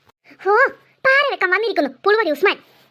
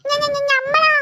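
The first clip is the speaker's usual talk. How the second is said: stammering surprise; 3 semitones higher, much slower than usual. Acted. Usman accused, stammers in shock.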